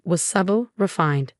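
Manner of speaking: plain reading voice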